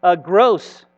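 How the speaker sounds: put-on animated read-aloud for children; playful storyteller narration; story reading. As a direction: tell it like a storybook, with lively swells.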